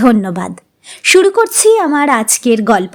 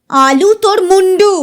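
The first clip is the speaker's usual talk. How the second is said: a touch of a raised scold; mild scolding; 5 semitones higher than usual. Acted. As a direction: snap back at the child, mildly. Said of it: "মাও গলা চড়ালেন এবার". (মায়ের হালকা ধমক)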